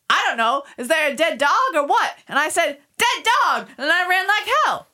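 reading the landlady's story aloud for friends, New York accent. Shown as a demonstration. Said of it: "read it in your New York accent".

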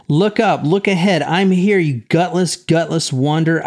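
a touch of the mother's fury in court; mild angry demand. Retold or imitated. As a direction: push it up like a mother confronting him. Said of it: "She says in court".

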